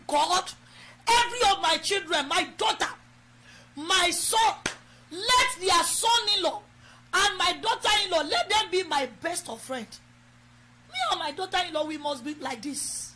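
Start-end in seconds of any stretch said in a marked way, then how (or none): 0.1-9.9 prayer lead. Acted. Pastor leading mothers in prayer, fervent prayer voice. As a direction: pray it out for them to echo. Leads congregation in model prayer.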